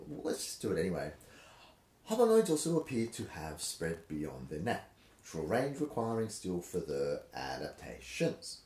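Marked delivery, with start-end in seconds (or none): 2.1-8.6 exaggerated sing-song reading pattern; lilting ups and downs, Seuss style; rhythmic reading. Shown as a demonstration. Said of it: "I've gone into a ridiculous pattern".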